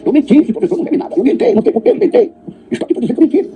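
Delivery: high voice breaking into laughter; laughing confession. Retold or imitated. The father admits his lie to the police chief, high and laughing. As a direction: confess through nervous laughs, pitched high. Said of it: "Aí a delegada disse".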